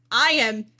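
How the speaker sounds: loud, slow, savoring exclamation; gleeful delight. Real, not acted. Streamer gloating over holiday events, loud and savoring. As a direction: relish every word with glee. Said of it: "eating so well".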